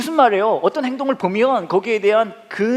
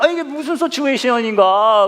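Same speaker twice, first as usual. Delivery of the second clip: bewildered; 5 semitones higher, 4 dB louder than usual. Retold or imitated. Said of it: "너무 놀래가지고".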